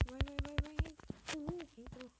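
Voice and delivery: high loud cheering; excited cheering. Real, not acted. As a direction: cheer it on as it lands. Cheering a success.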